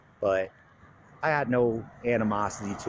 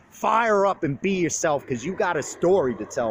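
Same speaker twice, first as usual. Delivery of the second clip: fired-up pep talk; 5 semitones higher, 4 dB louder than usual. Real, not acted. Pumping up his little brother.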